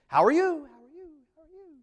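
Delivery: high loud call fading into a distant echo; Grinch cave echo. Retold or imitated. Preacher imitating the Grinch calling into his cave, fading echo. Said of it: "like the Grinch in his cave".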